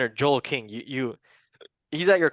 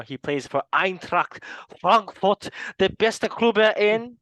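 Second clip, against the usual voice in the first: slow, higher, louder proud fan brag with German "beste"; playful biased boast about his club, slow and higher; mock fan boast; 7 semitones higher, 4 dB louder than usual. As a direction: hype up Frankfurt like a biased fan.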